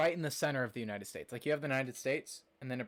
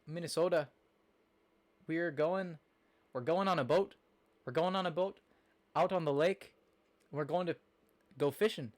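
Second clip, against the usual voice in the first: higher, halting attempt at a Minnesota accent; northern accent; 4 semitones higher than usual. Shown as a demonstration. Streamer attempting an accent she can't do well, northern accent. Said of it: "I can't do a northern accent very well".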